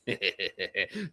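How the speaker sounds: low acted chuckle; chuckle under breath. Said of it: "chuckles, like, deep under her breath".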